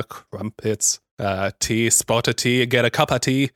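tentative try at a British accent. Shown as a demonstration. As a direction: feel your way into a light British accent. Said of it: "do I have a British accent in me?".

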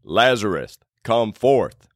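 lightly deepened, commanding God voice; a hint of God calling with authority; deep God voice. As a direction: put on a slightly deep voice of God. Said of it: "how I hit you with my deep God voice".

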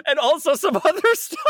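high-pitched, amused mock sales pitch; mocking ad claim. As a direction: toss it in high, through laughter. Mocking the ad's vague claim.

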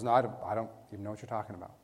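quick, low, evasive brush-off; hurried mumbled denial, a touch cowed; cowering denial. Acted. Peter denies it to the servant girl, cowering. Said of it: "now he's cowering and hiding".

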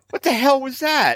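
retold disbelief as the boss drives away; baffled. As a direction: sound truly thrown by it. Keith drives off abruptly.

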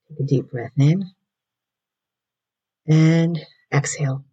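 calm, unhurried guiding voice; guided breathing. Acted. Host guiding listeners to breathe in and out, in a calm meditation voice.

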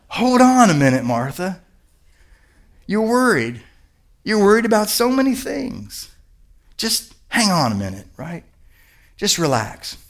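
soft, unhurried reassurance with pauses; calm her down gently, phrase by phrase; kindly Jesus. Acted. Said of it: "just says ever so kindly".

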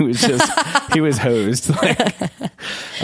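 laughing through the words; real laughter. Real, not acted. Priest telling of the exhausted workout partner, laughing. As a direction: break up while telling it.

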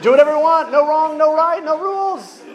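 loud, high, climbing pop-lyric delivery; hammed-up pop rebel, high and loud; mock party anthem. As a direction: build it up like a party chant. Performs a singer's party lyrics.

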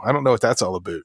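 joking Canadian "aboot"; hint of a Canadian accent. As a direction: slip into a little Canadian on "about". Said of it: "I hear a little Canadian".

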